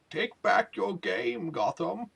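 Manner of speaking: lightly voiced superhero, drawn-out start; Batman. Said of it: "if you're going with the Batman voice".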